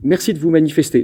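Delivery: high, tripping over the thanks; thanking in a real excited fluster; flustered stammering. Real, not acted. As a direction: break off and restart, flustered. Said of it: "J'en bafouille".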